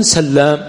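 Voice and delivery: سلام with a held double L, sallām; سلام as sal-LAAM; doubled lam. Shown as a demonstration. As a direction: slowly lean on the lam in سلام. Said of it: "يقرؤون بالتشديد".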